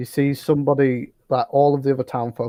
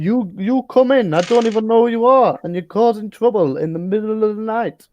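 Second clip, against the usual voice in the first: rising indignation; 7 semitones higher than usual. Acted. Townmaster scolding party.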